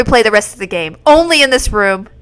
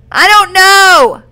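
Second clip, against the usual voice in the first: confused cry; 6 semitones higher, 4 dB louder, much slower than usual. Real, not acted. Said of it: "This is so confusing!".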